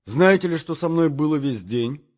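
high, loud eager call; eager cry. Acted. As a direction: burst out to get her attention. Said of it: "закричал я". (высокий, громкий возглас)

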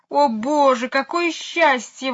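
high, loud, slow cry of relief. Acted. Miss Lark seeing her lost dog return, loud relief. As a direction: wail out your joy. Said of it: "возопила мисс Ларк".

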